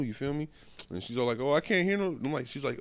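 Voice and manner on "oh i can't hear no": mimicking mom.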